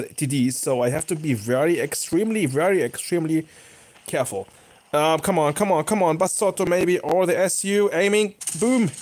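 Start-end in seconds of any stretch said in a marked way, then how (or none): 4.9-8.9 quick repeated urging, pitch rising to a high boom; excited urging. Real, not acted. Gamer lining up a shot on Bassotto, excited urging. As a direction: build up to the shot. Urging himself on while aiming.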